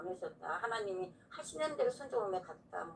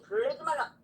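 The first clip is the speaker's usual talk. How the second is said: louder inner voice; 4 semitones higher, 6 dB louder than usual. Retold or imitated. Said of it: "더 큰 소리가 나는데".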